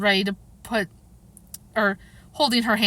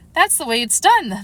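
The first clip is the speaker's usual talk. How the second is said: firm, higher-pitched pronouncement; great decision; 4 semitones higher, 4 dB louder than usual. A narrator's reading. The Queen instructs weeping Alice with great decision. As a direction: state it decisively, no room for doubt. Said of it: "said with great decision".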